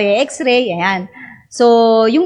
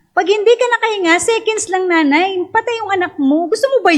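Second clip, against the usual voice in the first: stern doctor; 6 semitones higher than usual. Retold or imitated. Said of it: "Galit na galit sa akin".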